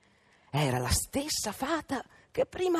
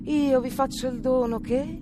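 fairy's voice; 7 semitones higher than usual. A narrator's reading. Fairy pronouncing curse.

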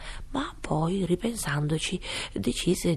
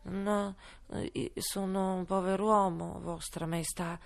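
trembling voice; 4 dB quieter than usual. Acted. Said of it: "con voce tremante".

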